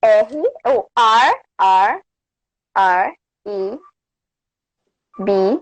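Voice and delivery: letter by letter, pausing between each; spelling it out. Shown as a demonstration. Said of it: "okay, it's".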